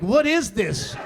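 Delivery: put-on loud alarmed child's "What is this?"; startled kid yelling at the TV; kid's alarmed shout. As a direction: shout it like a shocked eight-year-old.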